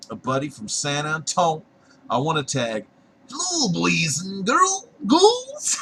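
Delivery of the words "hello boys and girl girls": spooky host voice. Acted.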